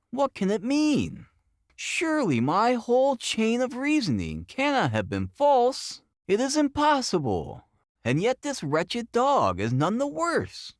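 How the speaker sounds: a man whose theory is collapsing; agitated outburst. A narrator's reading. Holmes pacing the room, frantic as his reasoning fails. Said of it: "pacing wildly up and down".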